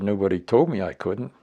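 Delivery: loud stubborn retort; defiant. Retold or imitated. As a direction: push back hard. Retold heated argument with colonel.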